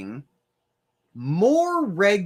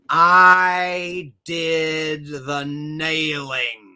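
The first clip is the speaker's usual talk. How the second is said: slow, drawn-out devout voice; mock pious confession; 4 dB louder, much slower than usual. Mock hymn believer confessing.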